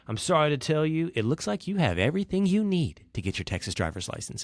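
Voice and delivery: friendly clerk teasing with good news; even, friendly official delivery; friendly joking tone. Retold or imitated. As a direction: imitate a kindly official's fake-out. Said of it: "the same friendly tone of voice".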